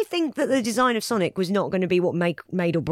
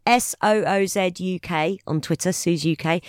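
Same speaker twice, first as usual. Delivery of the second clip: letter by letter handle; spelling it out. Shown as a demonstration. Giving her handle letter by letter.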